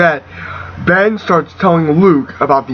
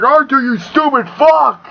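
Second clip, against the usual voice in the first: high-pitched exasperated robot; mock outrage, pitched way up; three P O; 9 semitones higher than usual. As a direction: scold a companion in a raised, comic voice. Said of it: "three P O's like".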